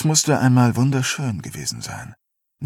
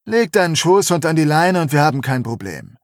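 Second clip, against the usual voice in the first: wütend; 5 semitones higher, 3 dB louder than usual. Acted. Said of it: "seinem wutverzerrten Gesicht".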